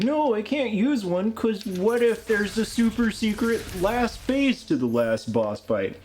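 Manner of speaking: high voice. Retold or imitated. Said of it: "I'm like".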